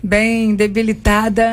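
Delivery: slow, worn-out hoarse voice; weakened hoarse voice. Real, not acted. Pastor explaining her voice is weak after a congress, hoarse. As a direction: draw it out with a tired, hoarse voice. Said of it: "então a minha voz tá".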